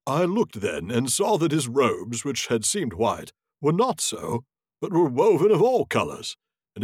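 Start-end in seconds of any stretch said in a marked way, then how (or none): none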